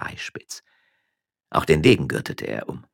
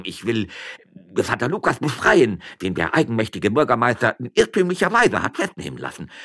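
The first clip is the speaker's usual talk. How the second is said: put-on self-important old man making excuses; blustering old official; pompous old magistrate; 4 semitones higher than usual. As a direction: justify yourself, then grumble about being soaked.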